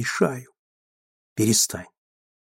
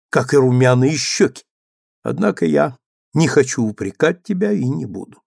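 abrupt; 5 dB louder than usual. Acted. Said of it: "сказал он отрывисто".

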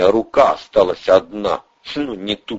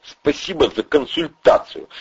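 through gritted teeth; 7 semitones higher than usual. Acted. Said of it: "сцепив зубы, процедил".

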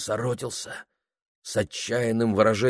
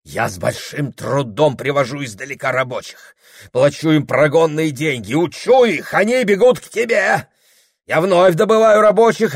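higher, louder furious rant; angry tirade; 11 semitones higher, 7 dB louder than usual. A narrator's reading. Husband berating his wife over stolen workers, furious shouting. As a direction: hurl the grievances at her, building.

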